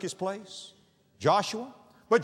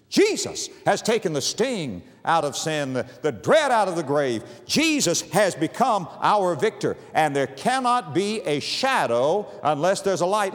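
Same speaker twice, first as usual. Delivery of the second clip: preaching; 4 dB louder than usual. Acted. Preacher urging the hurting to look to the light, full-force preaching. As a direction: preach it out to the congregation.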